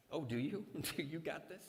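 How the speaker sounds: laughing, teasing disbelief; preacher mocking the casual believer; mock sarcasm. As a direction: needle them with amusement. Mocking reply to the brush-off.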